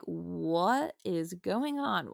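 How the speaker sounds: slow, drawn-out mock bafflement; baffled friends. Friends asking about her sudden accent, baffled. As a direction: imitate puzzled friends, stretching the words.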